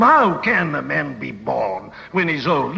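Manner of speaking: preacher playing a scornful Nicodemus; sarcastic scorn. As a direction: scoff at the idea. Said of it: "And you see the sarcasm".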